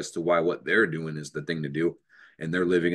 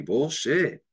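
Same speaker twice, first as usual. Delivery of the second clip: high, scornful bullshit; high mocking dismissal; scoffing; 9 semitones higher than usual. Real, not acted. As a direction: scoff at the idea. Scoffing at others' belief.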